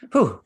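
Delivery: a loud, high, moved exhale, close to tears; emotional whew. Real, not acted. Host overcome after praising Chelsea, loud emotional whew. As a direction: blow out the feeling before it spills. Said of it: "before I start getting all emotional".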